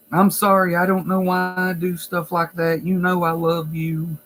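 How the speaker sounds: retold tearful apology. Resident crying to staff after beating people up, mildly mock-tearful. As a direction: imitate a pleading resident, lightly tearful. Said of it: "they'll start crying".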